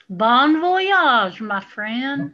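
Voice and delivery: mock farewell. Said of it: "I can say".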